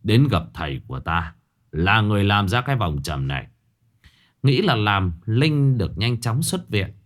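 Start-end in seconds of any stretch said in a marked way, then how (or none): 0.0-3.5 stepfather gently asking his daughter about the ghost; grave stepfather. Acted. Stepfather Hải speaks.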